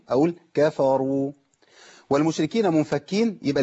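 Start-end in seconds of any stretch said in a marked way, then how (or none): 0.1-1.3 كفروا read slowly and clearly; correct Kafaru. Shown as a demonstration. Teacher correcting a common reading mistake. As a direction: pronounce كفروا carefully. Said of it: "ما أقولش كفروا".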